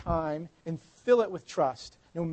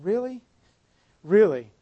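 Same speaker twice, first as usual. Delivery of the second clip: stunned disbelief; 3 semitones higher, 5 dB louder than usual. Retold or imitated. Jairus hearing his daughter died, stunned disbelief. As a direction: gasp it out in shock. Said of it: "his jaw dropping and going".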